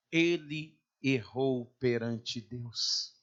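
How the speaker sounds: low, weighty, slow delivery; grave, drawn-out statement; solemn and slow. Real, not acted. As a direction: let each word fall slowly and low. Solemnly names David's failing before God.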